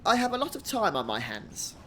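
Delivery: hearty, lilting fisherman-to-be, lightly acted; lightly voiced game character. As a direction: greet an old helper in a light character voice. Reads game character Ruxel's dialogue aloud.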